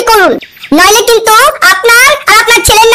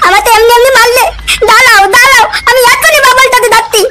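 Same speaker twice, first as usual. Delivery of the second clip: put-on crying child. Child threatening through tears.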